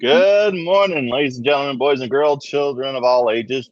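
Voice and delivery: booming showman announcement; ringmaster. Acted. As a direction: welcome the crowd like a circus ringmaster. Circus-style show opening greeting.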